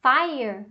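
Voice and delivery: "fire" with the AI diphthong; pronounced FIRE. Shown as a demonstration. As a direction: say "fire" as FAI-er, clearly. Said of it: "transcrição fonética da palavra". ("fire" pronunciado FÁI-er)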